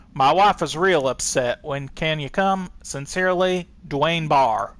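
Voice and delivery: hammed-up Texan accent reading a letter; weird Texan accent. A Texan man reading his complaint letter to the police, in a put-on Texan accent. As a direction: read it like a rattled Texan caller. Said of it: "I spoke with a weird Texan accent".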